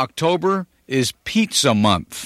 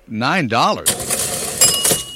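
drawn-out disbelief; much slower than usual. Real, not acted. DJ lingering on the price in mock shock, very slow. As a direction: stretch every word in sticker shock. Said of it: "That's a lot of money".

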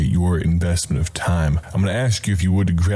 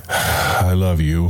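tender I love you; slower than usual. Shown as a demonstration. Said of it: "probably isn't felt as much".

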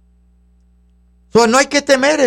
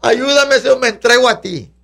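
pleading prayer; 3 semitones higher than usual. Acted. Believer who can do nothing begs the Lord, pleading. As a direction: act out a helpless cry for help.

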